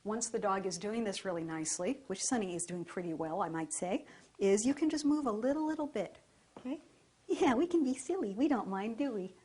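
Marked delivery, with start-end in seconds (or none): 4.4-9.3 higher, playful talk to the dog; be silly to test him. Real, not acted.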